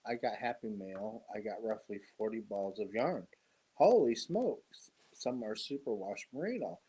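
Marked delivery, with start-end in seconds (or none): 3.7-4.9 amazed. Real, not acted. Viewer sent forty balls yarn.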